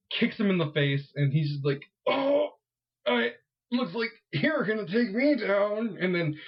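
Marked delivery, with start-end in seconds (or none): 2.1-6.0 high, slow sneering villain voice; a lightly hammed-up smug villain; mock villain taunt. Villain taunting the hero, mock sneer.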